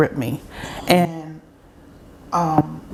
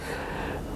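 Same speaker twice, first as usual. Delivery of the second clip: soft, unvoiced mimicked sigh; imitated tearful sigh; 15 dB quieter than usual. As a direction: let out a retold, overcome exhale. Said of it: "she started crying".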